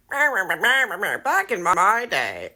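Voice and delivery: mocking gremlin dudes. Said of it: "gremlin dudes come out of the woodwork and are like".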